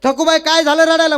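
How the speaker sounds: lightly played father-in-law demanding to know; acted puzzled questioning. Father-in-law questions the next woman. (चढ्या आवाजात विचारणारा सासरा)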